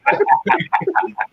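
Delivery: high laugh through the words. Real, not acted. Telling the hotel sheepdog story, laughing hard. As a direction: crack up while telling it.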